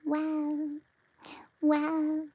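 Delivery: high, drawn-out wow; amazed wow. Real, not acted. Marvelling at the dog's jowls, high-pitched wow. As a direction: sound delighted and amazed.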